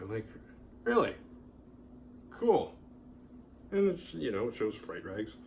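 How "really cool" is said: mock excitement. His mock reply to the clerk.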